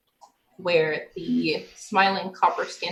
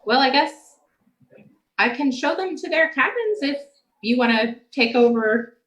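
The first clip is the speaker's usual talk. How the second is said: character voice; 5 semitones higher, 3 dB louder than usual. Acted. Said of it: "he's like".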